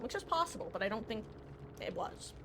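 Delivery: talking while chewing; words round a bite of food; mouth full. Real, not acted. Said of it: "Sorry, I'm chewing".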